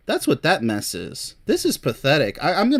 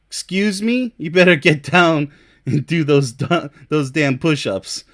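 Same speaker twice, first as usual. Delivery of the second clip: drill sergeant; 4 dB louder than usual. Pretend. Sergeant scolds lazy recruit.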